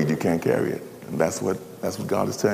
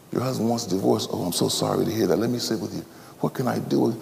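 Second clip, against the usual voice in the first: quieter, gentle comforting; soft sympathy; 5 dB quieter than usual. Acted. Minister consoling a crying woman, softly. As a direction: soothe her softly.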